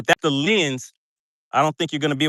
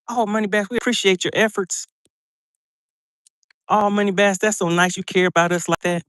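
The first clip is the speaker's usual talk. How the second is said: sarcastic mock praise; 5 semitones higher than usual.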